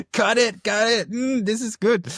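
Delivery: high-pitched laughing plea. Real, not acted. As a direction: squeal it out through laughter. Co-host flustered, laughing.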